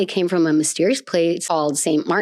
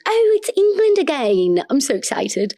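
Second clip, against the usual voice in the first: mock exasperation; 8 semitones higher than usual. Real, not acted. Mock weary jab at England.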